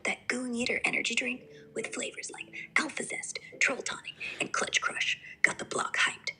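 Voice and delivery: straight-outta-Compton slang delivery; Compton street accent. Acted. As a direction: talk like a Compton homie. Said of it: "I want straight out of Compton ghetto".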